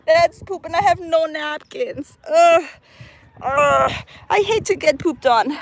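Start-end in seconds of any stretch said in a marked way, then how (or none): 2.3-5.6 disgusted groans. Real, not acted. Disgusted after bird poop.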